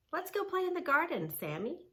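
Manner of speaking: put-on high, fast and eager girl's voice; eager Rachel. Rachel calls Sammy out to play, high and eager. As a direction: call the puppy to play.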